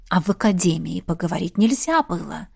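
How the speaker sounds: low, sly insinuation; insinuating. A narrator's reading. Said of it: "вкратчиво спросил Джаф".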